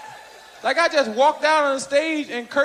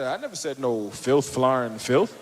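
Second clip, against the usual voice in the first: imitating Cosby; 5 dB quieter than usual. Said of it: "And I said".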